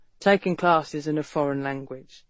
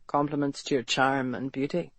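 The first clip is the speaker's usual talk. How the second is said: lightly done Irish brogue, teasing; a hint of Irish charm, flirting; light teasing Irish lilt; 5 semitones lower, 4 dB quieter than usual. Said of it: "Irish brogue".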